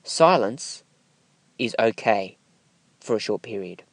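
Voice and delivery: "Silence", "is okay", "for a short period", each set apart by silence; pauses between phrases. Shown as a demonstration. Coach showing that silence is allowed, with deliberate pauses. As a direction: leave a clear gap after "Silence" and after "is okay". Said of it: "You can even pause between words".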